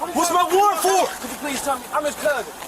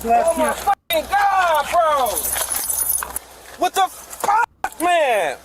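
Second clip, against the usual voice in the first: real exasperated outburst, higher and drawn out; furious yelling; 4 semitones higher, much slower than usual. Real, not acted. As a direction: yell it slow and outraged at the officers. Arrestee yells at officers.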